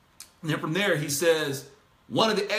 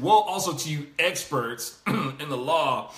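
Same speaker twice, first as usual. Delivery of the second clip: Woe also drawn out slowly with sarcasm; mock the experts, slow and dry; slow, dripping sarcasm on "Woe"; sarcastic; 3 semitones lower, slower than usual. Shown as a demonstration. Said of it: "saying it sarcastically".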